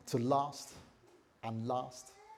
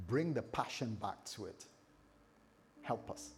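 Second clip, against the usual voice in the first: earnest spoken prayer to God. Acted. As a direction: pray it simply and sincerely. Leads the congregation in prayer.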